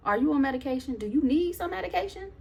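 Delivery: nasty-nice retold questioning; passive-aggressive mock concern. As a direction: needle with innocent-sounding questions. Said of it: "I'm being passive aggressive".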